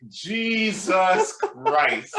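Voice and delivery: very slow, high mock-appalled exclamation; drawn-out shock. Listener appalled by the gym stranger, drawn-out shock. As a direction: stretch each word in disbelief.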